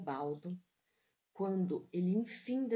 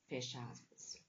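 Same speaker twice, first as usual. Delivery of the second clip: dictating; 5 semitones lower, 9 dB quieter than usual. Shown as a demonstration.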